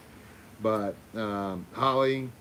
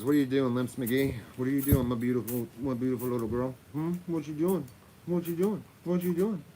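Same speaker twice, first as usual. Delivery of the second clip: high cooing pet voice, climbing higher; 4 semitones higher than usual. Real, not acted. Talking to the dog.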